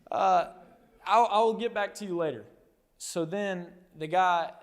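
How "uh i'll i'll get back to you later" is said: high, fast, giddy babble with a laugh; excited healed man. Retold or imitated. Healed man answering the religious leaders, giddy and excited. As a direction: gush like a man too thrilled to think. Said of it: "And he's just so excited".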